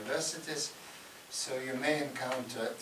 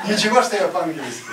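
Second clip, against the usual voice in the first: laughing; 5 semitones higher, 15 dB louder, faster than usual. Retold or imitated. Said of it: "he says".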